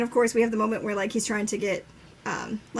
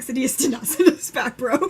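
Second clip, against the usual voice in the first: imitated laughing reply; 3 dB louder than usual. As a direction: talk through a laugh. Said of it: "and they're, like, laughing".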